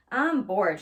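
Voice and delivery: a mild whiny complaint; understated childish whine; complaining. Acted. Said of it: "she complained".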